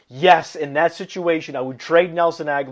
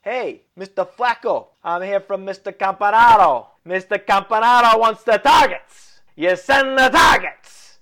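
hammed-up Italian mobster voice, higher and louder; funny Italian accent; 6 semitones higher, 5 dB louder than usual. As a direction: play the Italian goon sending a threat, louder. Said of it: "doing a funny Italian accent".

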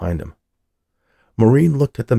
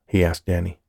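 usual speaking voice

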